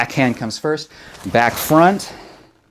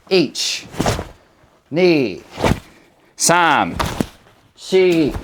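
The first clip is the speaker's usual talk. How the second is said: sharp martial arts commands; 3 semitones higher, much slower than usual. Shown as a demonstration. Karate teacher counting drill.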